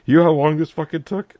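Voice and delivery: hammed-up annoyed complaint; exasperated rant. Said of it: "it's like".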